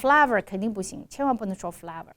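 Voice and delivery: "flavor" said as "flavver"; short cat vowel each time in "flavor"; wrong short A. Shown as a demonstration. Teacher warning against student's mistake, short a.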